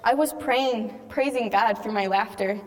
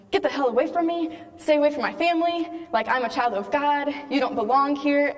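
higher, fierce rebuke in a mild mock yell; cursing Satan out; 4 semitones higher than usual. Retelling how she rebuked Satan at adoration, higher fierce rebuke. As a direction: drive the devil off, a pitch up and commanding. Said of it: "I started cursing Satan out and saying".

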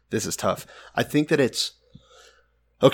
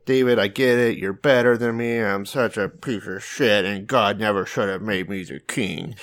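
mock whining. Saul grovelling to David over being king, mock whining. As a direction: imitate a pathetic sad sack. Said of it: "just whining and pissing and moaning".

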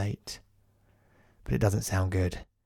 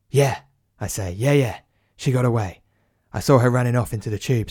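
flustered cover; 5 dB louder than usual. Acted.

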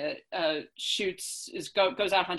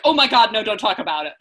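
horrified; 2 semitones higher, 9 dB louder than usual. Retold or imitated. Classmates' horrified reaction, acted.

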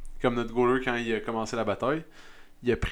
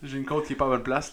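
laughing; 4 dB quieter than usual. Real, not acted. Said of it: "Ça fait mal quand je ris".

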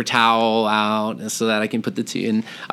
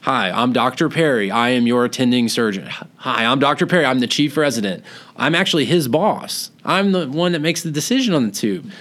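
pitched-up, upbeat mock bedside introduction; doctor introduction; 4 semitones higher than usual. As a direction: introduce yourself brightly, climbing higher toward the end. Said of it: "I'm always real big on".

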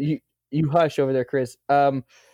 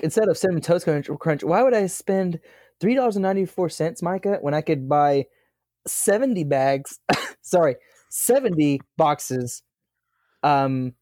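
a hint of a sing-song mother pushing the cheap brand; imitating mom; 4 semitones higher than usual. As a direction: mom explaining why the cheap cereal wins, a light mother's voice. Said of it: "is that how your mom really sounds".

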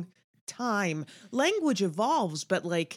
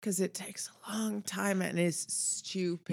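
whispered aside; whispering; 5 dB quieter than usual. Real, not acted. Aside after laugh.

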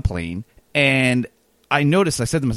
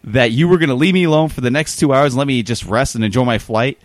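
louder, slowed, indignant retort; retold angry retort; 4 dB louder than usual. Annoyed wrestler scolds chatty fan seatmate, irritated. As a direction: snap back at the pestering fan. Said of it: "And he said this, like, very angry".

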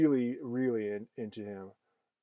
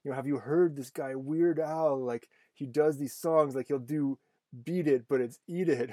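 imitating an eager boy, higher pitched; excited kid; 3 semitones higher than usual. Son telling his dad about a parody singer, excited. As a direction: relay a child's excited discovery, lightly acted. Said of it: "ran to his dad excitedly".

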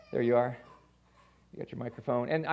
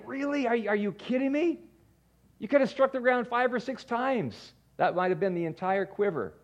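angry dying prophet; 7 semitones higher than usual. Retold or imitated. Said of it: "he's, like, dying angry".

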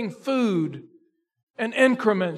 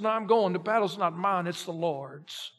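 quiet conviction; 4 semitones lower, 6 dB quieter than usual. Acted. David answering his doubters.

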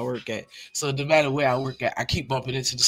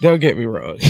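louder aside; 8 dB louder than usual. Real, not acted. Joking to listeners about his job, blurting it out louder. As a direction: burst out louder, laughing off the joke. Laughing mid-joke, sudden louder.

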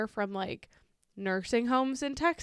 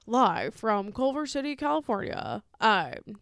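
radio news intro; 4 dB louder than usual. Retold or imitated. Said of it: "and then it's, like".

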